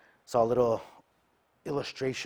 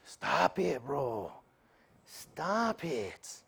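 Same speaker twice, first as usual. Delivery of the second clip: friend's mock scolding; 4 semitones higher, much slower than usual. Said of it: "He's probably like".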